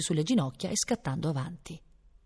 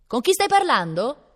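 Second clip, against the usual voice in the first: high, loud, drawn-out demand; sharp female voice; 7 semitones higher, 6 dB louder, slower than usual. A narrator's reading. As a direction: question the child like a piercing-voiced lady. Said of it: "un'acuta voce femminile".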